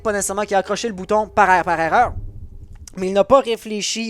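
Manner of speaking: brisk esports caster narrating the round; live play-by-play casting. Acted. Caster calling the round for the Twitch chat, brisk play-by-play. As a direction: call the action as it happens, steady and engaged.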